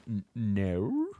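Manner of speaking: Australian "no?" stretched into two syllables, rising like a question; a light mock Australian "N-, no?" with an added syllable. Shown as a demonstration. Streamer demoing the Australian two-syllable "no?" to chat. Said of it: "add in an extra syllable to the word no".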